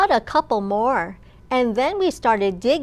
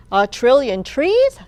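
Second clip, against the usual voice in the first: surprised question; 7 dB louder than usual. Acted. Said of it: "the salesman said".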